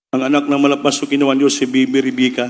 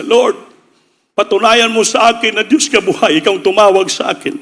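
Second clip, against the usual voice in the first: fervent prayer; 5 semitones higher than usual. Retold or imitated. Pastor prays to God in need.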